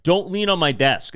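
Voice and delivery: retold reprimand; imitating angry boss. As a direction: act out a scolding boss. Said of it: "just yell at people".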